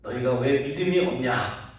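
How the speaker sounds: retold scolding that opens restrained and ends forceful; Jesus' rebuke. Jesus to his frightened disciples, retold rebuke building in force. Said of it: "이렇게 책망하시는 말씀을".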